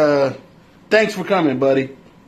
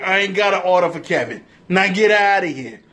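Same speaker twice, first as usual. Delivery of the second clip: put-on New York accent. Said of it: "that shitty ass fucking New York accent".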